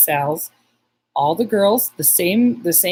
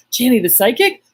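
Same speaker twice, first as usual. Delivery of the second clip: higher, louder mock amazement; excited; 6 semitones higher, 5 dB louder than usual. Wait staff recognizing the visitor, excited. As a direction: imitate staff thrilled at who walked in. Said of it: "They get all excited".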